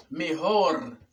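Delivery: "Mejor" ending in a clear R; "Mejor" as me-HOR; correct R. Shown as a demonstration. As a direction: say "Mejor" with final R, not L. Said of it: "es mejor".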